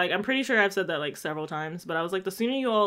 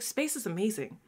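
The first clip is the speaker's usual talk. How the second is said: ditzy imitation; 7 dB quieter than usual. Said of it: "She's like".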